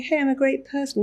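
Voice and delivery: bright, high hey; upbeat, pleased with yourself; breezy self-praise; cheerful self-talk. Shown as a demonstration. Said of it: "wandering around the house going".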